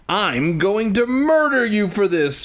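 hammed-up outrage, voice pushed high; angry shriek. A narrator's reading. Willa threatening her sister, mildly shrieked. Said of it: "she shrieked".

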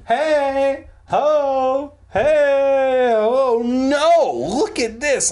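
high, loud mock alarm; hammed-up calling out. Startled narrator calling Roxanne to look, hammed-up cry. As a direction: belt out each exclamation way up high. Acted cry, interrupted by a moan.

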